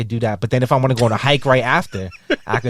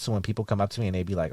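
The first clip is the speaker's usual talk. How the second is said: ordinary talk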